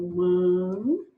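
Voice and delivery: "manteiga" split slowly, long pauses between syllables. Shown as a demonstration. Teacher separating syllables for the exercise, "manteiga" in isolated pieces. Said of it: "separem a sílaba".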